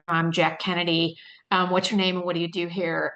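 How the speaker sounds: faint hint of a Boston accent; barely-there Boston accent, like a president; Jack Kennedy Boston accent. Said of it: "I don't do a good, um, Boston accent".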